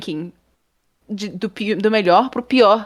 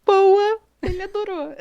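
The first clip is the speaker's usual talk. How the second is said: much higher, falsely bright reply hiding the hurt; fake cheerful; 12 semitones higher than usual. Ana mente aos colegas que o juiz adorou, alegria fingida. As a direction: pretend it went great, brightly. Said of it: "Aí eu".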